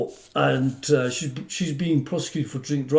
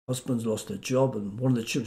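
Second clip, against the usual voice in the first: low, hushed listing of misfortunes; solemn court plea; 5 semitones lower, 8 dB quieter than usual. Retold or imitated. Advocate pleading a client's hardship to magistrates, solemn. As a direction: carry on a grave plea softly.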